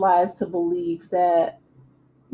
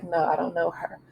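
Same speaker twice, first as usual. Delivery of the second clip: a singer's shade; 2 semitones lower, 7 dB quieter than usual. Retold or imitated. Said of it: "gives a singer's shade".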